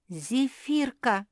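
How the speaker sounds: slow, drawn-out, high and loud call; yelling a name. A narrator's reading. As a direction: bellow the name in alarm. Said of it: "завопила Капитолина".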